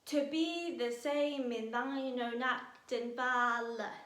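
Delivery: "To be the same in thine own act and valour" slowed, each syllable spaced to show eleven beats; counting syllables. Shown as a demonstration. Teacher slowly counts out the eleven syllables for students. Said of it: "do not conform to the ten syllables".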